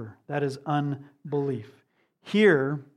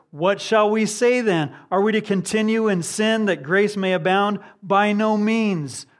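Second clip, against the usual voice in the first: raised, louder preaching voice, slowing on the last phrase; forceful declamation; 5 semitones higher, 6 dB louder than usual. Acted. Preacher quoting Paul against continuing in sin, forceful declamation. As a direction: proclaim it high and loud, then refute firmly. Declaims Paul's rhetorical question and answer.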